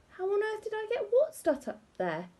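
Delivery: high, crying pained wail; wailing husband. A narrator's reading. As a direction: sob it out in pain. Husband wails in distress.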